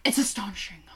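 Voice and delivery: whispered pronouncement; authoritative whisper. Retold or imitated. Random woman declaring what the French means, whispered. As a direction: whisper it like a verdict. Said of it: "she said it with such authority".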